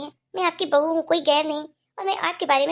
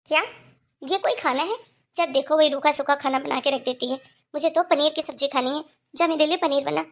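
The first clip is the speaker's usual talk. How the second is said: bossy mother-in-law turning up her nose; grumbling old mother. Acted. Mother-in-law rejecting daughter-in-law's cooking, grumbling.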